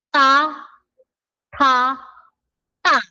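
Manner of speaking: first Ta aspirated, then ta tense, then ta plain; three Korean t sounds. Shown as a demonstration. Teacher comparing three t sounds, contrasting t. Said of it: "Comparison nga ng tatlo".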